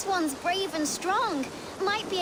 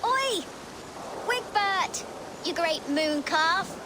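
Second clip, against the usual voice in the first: calling out. Acted. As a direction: shout to get his attention. Calling out to a boy.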